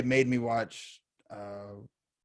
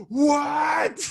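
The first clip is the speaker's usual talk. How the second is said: high, loud cry of shock; mock outraged what; 13 semitones higher, 4 dB louder than usual. Co-host hearing he lied all along, yelping in mock shock. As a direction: yelp like you've been betrayed. Betrayed co-host's reaction.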